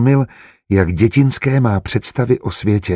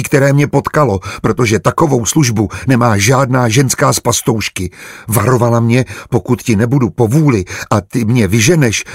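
put-on naive young maid; 3 semitones higher than usual. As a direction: confide earnestly, with a touch of agitation. Voices Barča confiding in him. (lehce naznačená naivní služebná, svěřuje se)

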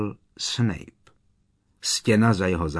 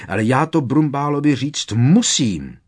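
loud desperate cry, higher; yelping out; 6 semitones higher, 8 dB louder than usual. Acted. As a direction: cry it out in frustration. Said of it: "vyjekl Harry".

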